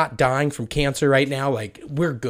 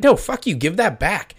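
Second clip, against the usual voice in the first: high, loud protest; indignant shout; 8 semitones higher, 6 dB louder than usual. Retold or imitated. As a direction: snap at him to give it back. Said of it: "And she's like".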